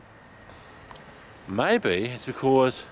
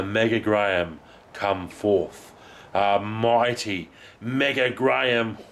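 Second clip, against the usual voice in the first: slow, lower mock-heraldic "Mega Graham"; grand announcement; 3 semitones lower, slower than usual. The speaker playfully summoning his alter ego, slow and grand. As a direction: proclaim yourself slowly like a herald.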